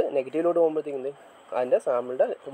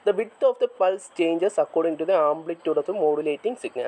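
slow dictation; much slower than usual. Shown as a demonstration. Teacher dictating a definition to the class, slow and measured. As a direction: dictate the definition word by word, very slowly.

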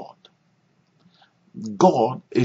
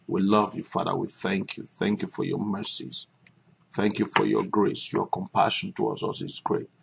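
prayer; 3 semitones lower than usual. Acted. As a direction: pray tenderly to the Father, hushed. Leads a prayer.

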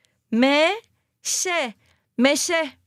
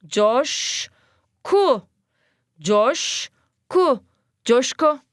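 drawn-out syllable-by-syllable reading of "Coşku"; reading aloud slowly; much slower than usual. Shown as a demonstration. Teacher reads the word slowly to pupils, drawn out. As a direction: read "Coşku" slowly for kids to echo. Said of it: "Hadi bakalım, okuyalım".

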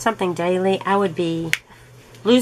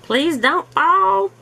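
pleading with trees; 3 semitones higher, slower than usual. Retold or imitated. Watching trees sway in the wind: slow worried plea. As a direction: beg the swaying trees not to come down. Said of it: "I'm like".

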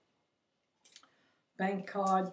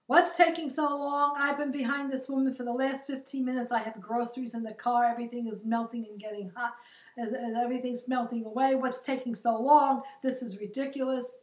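loud, impatient mock yelling; imitating an angry old man shouting; retold angry yelling; 3 semitones higher, 5 dB louder than usual. Angry customer yelling at the bank teller, mock yell. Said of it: "he's screaming at this woman".

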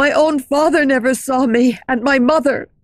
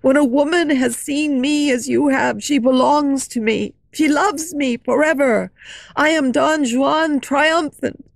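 louder, higher raging shout; furious shout; 3 semitones higher, 3 dB louder than usual. Acted. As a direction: rage at her, cursing. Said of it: "he cursed and shouted".

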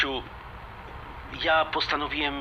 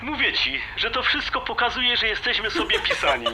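laughing; 8 semitones higher than usual. Acted. He laughs while declaring fate.

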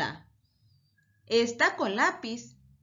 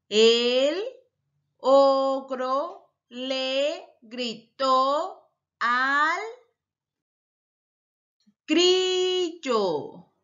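very slow, word by word, a little louder; reading slowly aloud; 4 dB louder, much slower than usual. Shown as a demonstration. Teacher reads the written sentence back to children, very slowly. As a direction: read the sentence at a crawl to check it. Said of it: "vamos a leerla".

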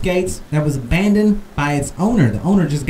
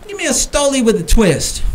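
higher, eager mock order; quoting himself; 8 semitones higher, 3 dB louder than usual. Nervous tourist ordering vodka, higher, eager. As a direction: lift the voice like ordering loudly at a bar. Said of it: "I said".

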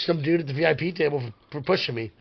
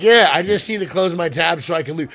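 louder reply over the noise; shouted reply; 3 semitones higher, 6 dB louder than usual. Retold or imitated. The speaker answering the bartender over bar noise, shouted reply. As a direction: shout your excuse over the music.

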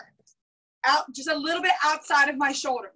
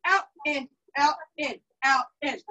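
slow demo count. Shown as a demonstration. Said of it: "demonstrating the footwork slowly".

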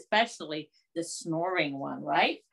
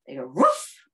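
a bigger dog bark on woof; louder mock woof; 6 semitones lower, 7 dB louder than usual. Shown as a demonstration. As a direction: make woof sound like a dog. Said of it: "what are some sounds that dogs make".

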